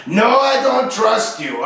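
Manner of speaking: slow imitation of Quebec French accent; mock French Canadian accent. French Canadian gamer refuses teammate's cover, slow mock accent. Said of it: "he was French, he was from Quebec".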